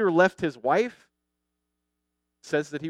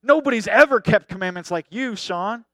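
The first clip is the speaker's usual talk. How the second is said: imitating an awestruck exclamation, louder; mock amazement, pitched up and loud; hammed-up awe at a star pupil; 6 semitones higher, 9 dB louder than usual. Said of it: "you're gonna be so awestruck".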